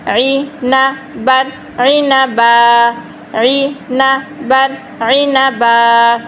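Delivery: slow, repeated syllables; slow drill. Shown as a demonstration. Teacher repeats عنبا slowly for the class. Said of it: "یعنی کہ آخری حرف ساکن".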